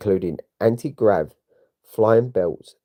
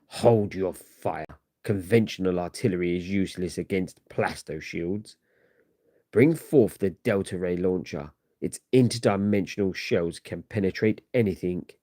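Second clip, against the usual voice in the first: imperious conqueror. Acted. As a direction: issue orders like a conqueror, unhurried. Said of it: "the commanding, imperious voice of the Kang the Conqueror booms out".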